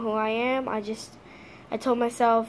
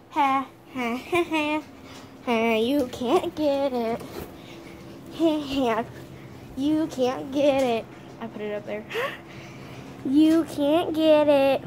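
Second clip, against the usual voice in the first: slow sing-song gloating; teasing taunt; 2 semitones higher, slower than usual. Real, not acted. Owner taunting her dog it can't reach the toy, slow sing-song.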